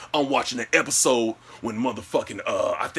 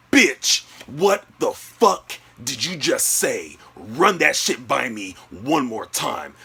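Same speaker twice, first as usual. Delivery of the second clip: angry disbelief; slower than usual. Retold or imitated. Boyfriend challenging girlfriend's excuse, angry disbelief. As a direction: space the words out in acted outrage.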